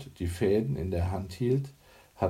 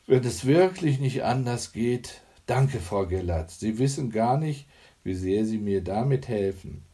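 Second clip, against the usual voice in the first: a higher, lightly voiced relieved neighbour; a lightly voiced woman, eager with thanks; grateful anxious neighbour; 3 semitones higher, 4 dB louder than usual. Iris, worried, thanks Hanne for the help: lightly voiced, grateful.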